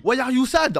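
retold question in English. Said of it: "Je lui dis".

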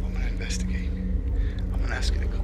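breathy unvoiced whisper. Real, not acted. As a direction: whisper it so nothing hears you. Repeated, now whispered.

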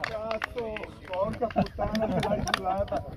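loud, excited swearing; explosive italian cursing. Real, not acted. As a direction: curse out loud in triumph. Fish landed, shouting curses.

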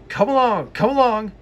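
puffing engine. Acted. James puffs, calling cars.

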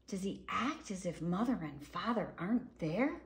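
lively, sing-song picture-book reading; reading to children. A narrator's reading. Reading a dinosaur book to children, lively storybook voice. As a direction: read it out like a bedtime story.

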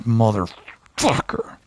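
slow whispered motherfucker; whispered curse. Real, not acted. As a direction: hiss it under your breath. Frustrated muttered curse.

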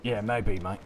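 put-on British accent. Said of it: "this voice is killing me".

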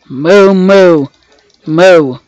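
long, drawn-out moos; cow mooing. Pretend. Gamer greeting a cow in the game, mooing. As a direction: imitate a cow with rounded moos.

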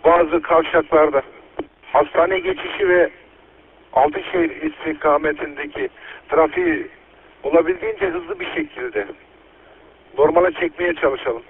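police radio. Real, not acted. Earthquake emergency radio traffic.

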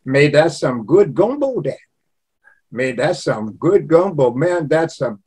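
Cajun lilt with "mais" said "may"; Cajun accent. Shown as a demonstration. Showing how Cajuns start sentences with mais, Cajun accent. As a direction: praise the food in a light Cajun accent. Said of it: "They say".

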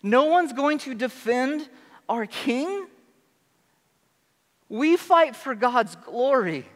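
put-on high, ringing, indignant young David; rally the troops with outraged faith; fired-up young David. David rallying the army, high and fervent.

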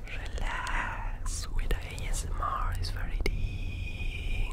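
slow, drawn-out whisper; slow ASMR whisper. Acted.

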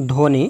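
ধ্বনি said as dhoni, with no b; ধ্বনি in two syllables, dho-ni; silent ব-ফলা. Shown as a demonstration. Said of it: "কোনো উচ্চারণ হয় না".

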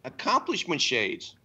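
"Accomplishment shades" run together as one botched word; mimicked mispronunciation. Co-host repeating the president's slip for the host, mimicked mispronunciation. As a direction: imitate swallowing dentures on "Accomplishment shades". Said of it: "like he was swallowing his dentures".

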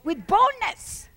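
slow, weighty with boldness; stressed phrase. Real, not acted. Preacher repeating the key phrase, slow and weighty. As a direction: lean on boldness, slowly. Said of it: "repeats key phrase slowly".

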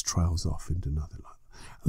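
trailing off. Shown as a demonstration. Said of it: "And that, just like that".

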